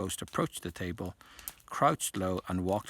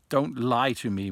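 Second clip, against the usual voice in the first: gasped out, louder, close to tears; tearful gasp; 5 semitones higher, 8 dB louder than usual. A narrator's reading. The ghost girl accuses the students of mocking her, gasping in tears. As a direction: choke it out as the tears come. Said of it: "Myrtle gasped, tears flooding".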